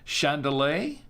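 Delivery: chandelier said as "shan-duh-LAY" with a rising, questioning end; trying chandelier as shan-duh-lay, unsure; unsure pronunciation attempt. Shown as a demonstration. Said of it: "I don't know how to pronounce this".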